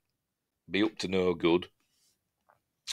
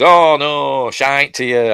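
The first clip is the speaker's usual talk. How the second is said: loud, raised, fed-up retort; Tuck storming off; 4 semitones higher, 8 dB louder, slower than usual. Retold or imitated. Tuck quitting on T J over the tour, loud and fed up. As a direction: throw it at her and leave.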